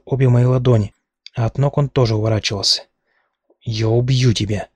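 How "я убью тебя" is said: yelled threat while struggling; mild mock yell of the threat; screamed threat. A narrator's reading. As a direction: scream it as you fight free. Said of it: "вопила я".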